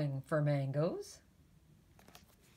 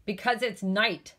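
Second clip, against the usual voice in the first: snapped; 4 semitones higher, 4 dB louder than usual. Acted. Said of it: "snapped Jim".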